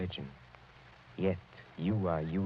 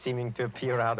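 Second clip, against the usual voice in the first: amused laugh; 3 semitones higher than usual. Acted. Count appears laughing from wall.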